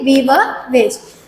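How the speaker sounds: slow, careful We were waste; very slow repeat. Shown as a demonstration. Teacher confirming the word to pupils, very slowly. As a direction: repeat it slowly and clearly for the class.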